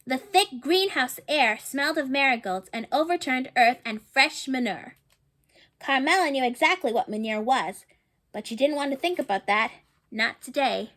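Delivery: gentle read-aloud storytelling voice; storybook narration. A narrator's reading. Reading a picture book to children, storybook narration. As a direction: read the story to the little ones.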